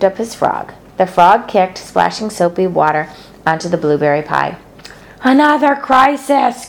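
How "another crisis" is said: put-on slow, weary girlish groan. A narrator's reading. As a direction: sigh it out, fed up. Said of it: "groaned Fern".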